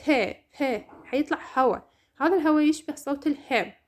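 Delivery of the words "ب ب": "ب، ب" said with a puff of air after each; aspirated p demo. Shown as a demonstration. Teacher asking students to try the aspirated p. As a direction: pop the p out with breath. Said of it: "جربوها".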